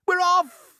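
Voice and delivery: high, loud cheer; excited cry. Acted. The others cheer the departure, excited. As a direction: cheer together. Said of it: "the others cried".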